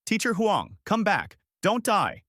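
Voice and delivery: high-pitched pleading cry; sobbing. A narrator's reading. Children begging their teacher back, high distressed cry. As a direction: plead high, without real sobs.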